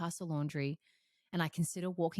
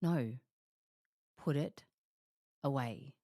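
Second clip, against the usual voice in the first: calm firm command; 3 semitones lower than usual. Retold or imitated. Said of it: "I just said to myself".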